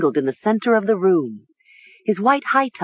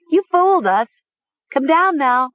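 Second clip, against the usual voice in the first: giddy, very high calling out; high cry; 9 semitones higher, 4 dB louder than usual. A narrator's reading. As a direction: cry up to him, insisting on the prank. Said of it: "Nessa cried".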